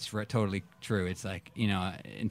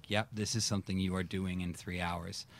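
soft scheming; 3 semitones lower, 11 dB quieter than usual. Retold or imitated. Retold plotting, very soft.

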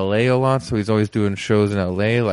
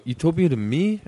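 higher mock De Niro question; De Niro style title; 6 semitones higher than usual. Shown as a demonstration. Host telling fans what to say to friends, De Niro style. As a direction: throw the title out like a tough-guy challenge.

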